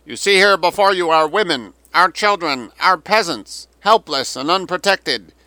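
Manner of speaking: high, loud declaimed propaganda plea; roaring loudspeaker appeal. A narrator's reading. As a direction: project grandly across a river, phrase by phrase. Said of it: "The roaring voice rolled across the river".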